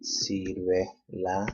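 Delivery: sírvela very slow, SÍR held; stress on SÍR. Shown as a demonstration. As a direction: stretch sírvela, leaning on the first syllable. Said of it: "Emphasis is on the third to the last syllable".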